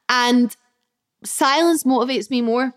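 ordinary talk, nothing marked

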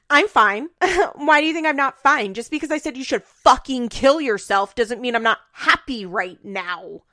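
high, loud mock denial of anger; Farrah. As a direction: insist you're fine while blowing up, settling at the end. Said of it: "she's gonna do her".

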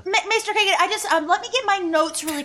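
flustered stalling. Acted. Stalling her boss on call.

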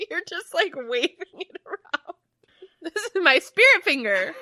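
high, breathless laughing through pain; laughing hard. Real, not acted. It hurts to laugh.

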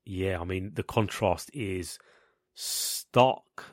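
rough, croaky voice from a cough; hoarse and croaky, a bit sick; gravelly voice. Real, not acted. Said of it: "I've got a bit of a cough and a gravelly voice".

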